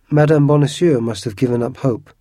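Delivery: loud, booming voice. A narrator's reading. Porthos booming over the celebration meal. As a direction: boom it out across the table. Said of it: "boomed Porthos".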